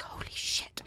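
stunned whisper; hushed awe. Acted. Crowd member turning to another, stunned whisper. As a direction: whisper it in shock.

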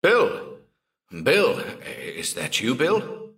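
high, calling bellow. Acted. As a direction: call out as if from far away. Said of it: "Jim's voice bellowed".

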